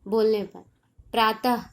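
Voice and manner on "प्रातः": प्रातः ending on an audible ह; final ह sound. Shown as a demonstration. Teacher giving a visarga example, sounding the final ह. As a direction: finish प्रातः with a puff of ह. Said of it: "उच्चारण करने पर last में ह".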